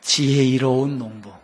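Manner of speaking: 지혜로운 drawn out and stumbled; slow, tangled take. Shown as a demonstration. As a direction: say 지혜로운 농부 slowly as if tongue-tied. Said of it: "저도 아침에 혀가 막 꼬여요". (혀가 꼬인 듯 느리게)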